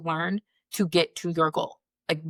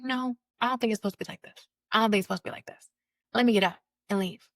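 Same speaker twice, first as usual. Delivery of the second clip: pained retort; 4 semitones higher, faster than usual. Retold or imitated. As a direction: plead that this can't be right. Retelling her reply in marriage.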